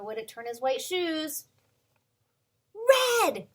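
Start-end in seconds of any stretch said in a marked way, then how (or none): 3.2-3.5 reveal. Acted. Revealing answer.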